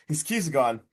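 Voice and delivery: ordinary talk, nothing marked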